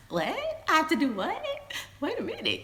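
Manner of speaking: high, sharp outraged what; indignant disbelief. Retold or imitated. Woman told to leave his house, indignant. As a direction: act stunned and offended.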